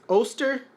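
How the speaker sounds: "Oster" with a long "oh" first vowel; "Oster" begun like "oh", lifted at the end; corrected pronunciation. Real, not acted. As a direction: say "Oster" as "OH-ster", tentatively. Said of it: "I think I'm saying it right".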